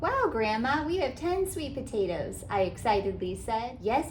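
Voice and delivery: put-on gentle, lively read-aloud for kids; storybook narration. A narrator's reading. Author reading a picture book to children, animated storytelling. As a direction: read it like storytime for little ones.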